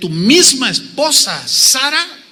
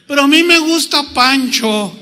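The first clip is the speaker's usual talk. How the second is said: higher-pitched mock objection; playful protest; 5 semitones higher than usual. Abraham talks back to God over the baby's name, playful protest. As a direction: object like a stubborn parent, played for laughs.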